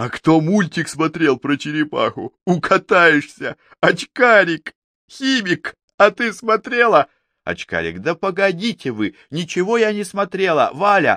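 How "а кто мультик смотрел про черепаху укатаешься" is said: suddenly laughing, higher pitch. A second student chiming in as fellow students argue, suddenly laughing. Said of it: "вдруг смеясь".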